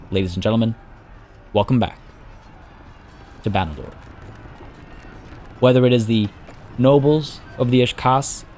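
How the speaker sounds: measured dramatic fantasy narration; storyteller's voice with deliberate pauses; story narration. A narrator's reading. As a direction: tell it like an epic war chronicle. Presents the episode and resumes narration.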